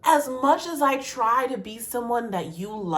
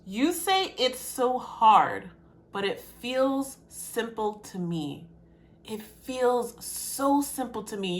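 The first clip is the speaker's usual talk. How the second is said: slow tender reading; 6 dB quieter, slower than usual. Real, not acted. Reading lyric slowly.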